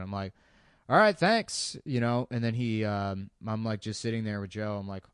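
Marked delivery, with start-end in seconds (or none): 0.9-1.8 high, relieved thank-you to the cop; mock relieved thanks. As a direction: sound overly grateful and light.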